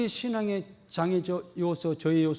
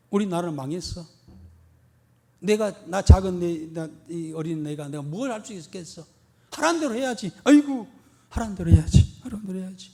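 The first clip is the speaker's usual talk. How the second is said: put-on resigned boy; 4 dB louder than usual. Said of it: "다니엘도 얼마든지 그렇게 이야기할 수가".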